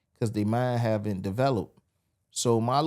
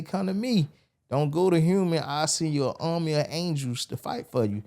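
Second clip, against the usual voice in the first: a lightly raised, commanding call from above; voice of God; 5 semitones higher than usual. Retold or imitated. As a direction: speak as God calling him to come. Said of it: "God say".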